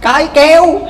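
high loud stubborn reply; wife drowning yet still defiant toward her husband. Acted. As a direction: refuse him to the last.

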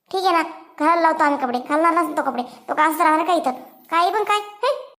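mildly angry, protesting retort; indignant. Acted. Aunt defending shirtless brother to the nurse, mildly indignant. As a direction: object with a touch of outrage. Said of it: "रागू नका तुम्ही".

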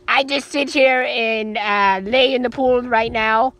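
very deep, slow toy voice; low, slow, drawn-out figure voice; Luigi voice. Pretend. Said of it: "Hey, Luigi".

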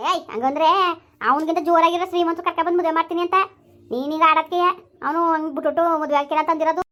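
father angrily scolding his crying daughter; angry scolding. Acted. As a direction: scold her hard to shut her up.

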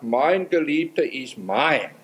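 slow and drawn out, mein held long; slow, deliberate verse reading; slow quote. Shown as a demonstration. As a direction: savour each word of the verse slowly. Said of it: "Die Betonung ist völlig anders geworden".

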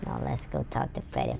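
fast hushed whisper. Real, not acted. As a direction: whisper like sneaking past guards. Gamer whispers sneaking.

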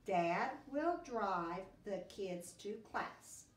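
sentence read slowly and clearly; teacher repeating dictation. Shown as a demonstration. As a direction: read it slowly so they copy it. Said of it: "word for word what I say".

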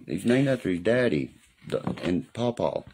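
usual speaking voice

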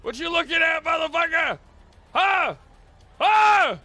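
confrontational shouting; aggressive. Acted. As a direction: get in his face.

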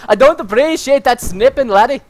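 imitated Scottish brogue, lightly done; Scottish accent. Player teasing teammate's complaint, playful Scottish accent. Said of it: "he's Scottish now?".

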